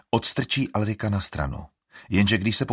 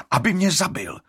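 bitter; 11 semitones higher, 5 dB louder than usual. A narrator's reading. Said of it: "dodá Alrik".

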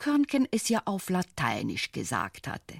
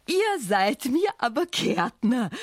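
lächelnd; 5 semitones higher, 4 dB louder than usual. Acted. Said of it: "lächelte die Sonne".

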